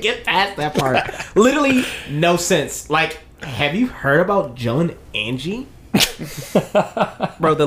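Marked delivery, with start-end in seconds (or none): 1.3-5.7 mock white Valley girl voice; Valley girl accent. Friend gets through the script at last, Valley girl accent. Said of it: "basic white girl, white Valley girl".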